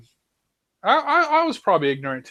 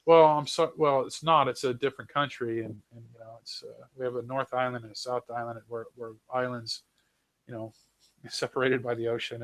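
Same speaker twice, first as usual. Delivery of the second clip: imitating polite correction; 3 semitones lower than usual. New Zealander correcting people, imitated as politely tactful. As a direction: gently set them straight, trailing into softness. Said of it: "you try to be polite about it".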